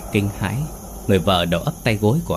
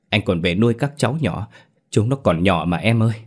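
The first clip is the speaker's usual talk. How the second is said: a touch of husband's fury, then pleading; angry then begging. Acted. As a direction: curse her, then beg the ghost. Sĩ accuses wife, then begs.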